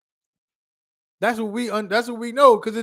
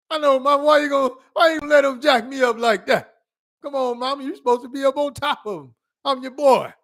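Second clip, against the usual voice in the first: higher, whiny plea to mom; child pleading to mama; 8 semitones higher than usual. Retold or imitated. Son pinned by dad pleads with his mother, high and whiny. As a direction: beg mama to step in, like a kid.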